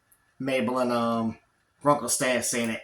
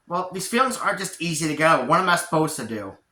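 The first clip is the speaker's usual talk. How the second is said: mildly frustrated, helpless protest; defensive complaint; 5 semitones higher than usual. Acted. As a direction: push back with a touch of frustration. Dipper defends himself, later echoed.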